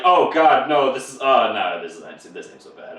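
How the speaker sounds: hammed-up girl caving in; mock flustered girl. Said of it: "And she's like".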